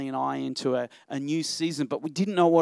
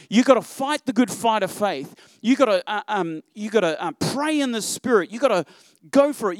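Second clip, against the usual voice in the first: louder and higher, driving each "you gotta" home; fiery push-through exhortation; rising preaching fervor; 4 semitones higher, 5 dB louder than usual. Real, not acted. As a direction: preach it like a rallying cry. Preacher urging the church to push.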